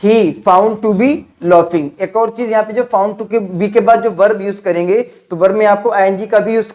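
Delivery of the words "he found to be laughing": slow model sentence. Shown as a demonstration. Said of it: "तो क्या बोलेंगे?".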